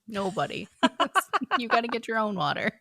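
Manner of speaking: laughing, fast gentle scolding; laughing mom reply. Retold or imitated. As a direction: tease him through laughter. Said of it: "And I'm like".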